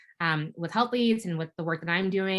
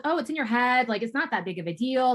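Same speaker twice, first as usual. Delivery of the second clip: higher-pitched mock brush-off; dismissive; 6 semitones higher, 3 dB louder than usual. People dismissing complaints of unfair treatment, mock dismissive. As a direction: imitate someone waving away a complaint. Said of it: "we were constantly being dismissed".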